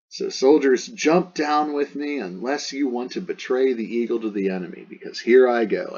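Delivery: rally them before leaping in; acted rallying shout. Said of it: "He probably did shout".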